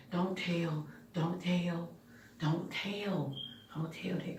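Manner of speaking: hushed, urgent begging; soft frantic plea to keep a secret; pleading whisper. Retold or imitated. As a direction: beg him quietly not to tell. Begging brother not to tell.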